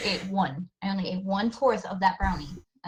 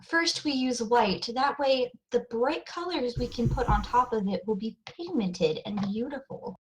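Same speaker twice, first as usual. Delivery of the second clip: a hint of a makeup tutorial host. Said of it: "replicate a makeup tutorial".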